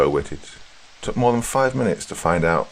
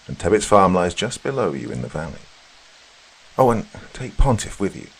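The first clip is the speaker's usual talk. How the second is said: slightly raised, brisk mistress giving directions; lightly voiced mistress. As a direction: give directions as a lightly played employer. Employer gives the governess directions.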